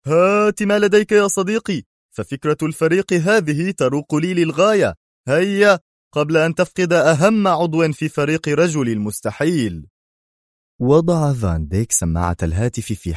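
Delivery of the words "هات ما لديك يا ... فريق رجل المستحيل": much higher, louder, keen; can't wait to hear the plan; excited eagerness. Acted. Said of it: "في انفعال".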